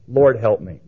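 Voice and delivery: plain, heartfelt little prayer; sincere. Retold or imitated. Woman praying uninstructed to the Lord, sincere. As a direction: plead simply, without any show. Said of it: "it was sincere".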